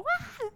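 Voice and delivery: sudden high yelp of shock; a short, very high startled "ah"; startled cry. Retold or imitated. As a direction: yelp like you just got a fright. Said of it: "yo solo fue como".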